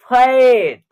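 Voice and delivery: फैट with a long open 'ae'; AI vowel in फैट. Shown as a demonstration. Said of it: "ए का उच्चारण ऐ के रूप में". (फैट में लंबा ऐ)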